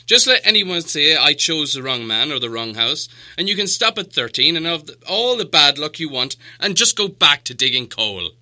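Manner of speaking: put-on loud, scolding old wizard; stern wizard. Gandalf scolds the dwarves.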